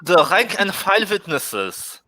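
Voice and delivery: put-on German accent turning witnesses into vitnesses. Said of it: "the speaker is trying to do a German accent".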